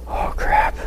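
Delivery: whispered aside to oneself; hushed retold dread; inner dismay. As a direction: breathe it out, voiceless, as a sinking realization. Silent realization, voiced as inner thought.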